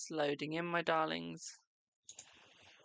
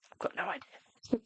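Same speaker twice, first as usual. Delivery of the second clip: mock clueless; 9 semitones higher than usual. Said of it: "So I was there like".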